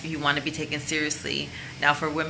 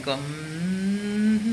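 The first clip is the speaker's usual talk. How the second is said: humming; 3 semitones higher than usual. Shown as a demonstration. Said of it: "you can even hum it".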